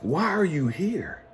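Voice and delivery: slow, whispered and soft; hushed, slow mentor's question; hushed probing question. Retold or imitated. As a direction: ask it slowly under your breath, searching. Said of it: "And then he said".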